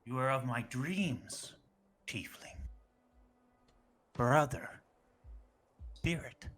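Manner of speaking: awed whisper. Acted. Captain marvels at the tiefling.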